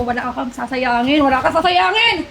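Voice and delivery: slow, spaced, stern "sasayangin"; slow, firm warning with "sasayangin" drawn out. Acted. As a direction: spell out every word as a threat. Carer scolds, repeats slowly.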